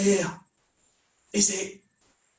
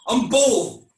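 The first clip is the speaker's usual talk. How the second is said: much louder, forced claim; Aaron insisting on his tough identity, louder; defiant; 4 semitones higher, 5 dB louder than usual. Acted. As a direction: puff up and insist on it. Forced self-assertion.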